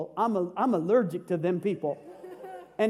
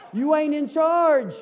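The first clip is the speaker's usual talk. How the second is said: loud, slow, higher, laying down the law; stern warning; 6 semitones higher, 9 dB louder, slower than usual. Acted. Parent reminds the unruly kids of the house, in a loud stern slow voice. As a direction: tell the kids who's boss, word by word. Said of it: "remind the inmates".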